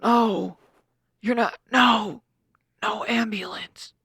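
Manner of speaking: slow, halting mock protest; mimicking Jeremy. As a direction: drag it out like a stubborn patient. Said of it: "This is how Jeremy said it".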